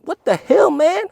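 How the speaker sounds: very high, loud mock outburst; mock outraged yell. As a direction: shout it like a furious kid. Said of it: "he was like".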